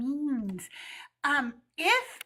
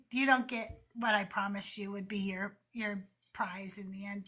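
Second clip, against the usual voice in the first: mock whisper; 6 semitones lower, 7 dB quieter than usual. God's verdict, retold mockingly.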